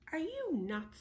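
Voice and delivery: high, disbelieving cry; incredulous. Acted. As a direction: sound shocked at the idea. Jack incredulous, high loud.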